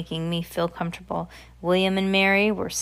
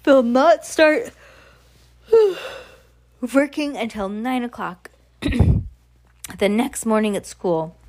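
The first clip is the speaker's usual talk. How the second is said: put-on higher, slow witch voice with accent; emphatic witch; 5 semitones higher, 5 dB louder, slower than usual. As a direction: draw it out dramatically as the witch. Voices the Grand High Witch.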